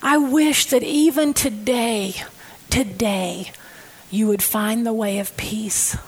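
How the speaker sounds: softening to a broken whisper; grieving lament, voice falling away; tearful plea. Acted. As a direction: plead through tears, fading to a whisper. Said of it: "He was crying".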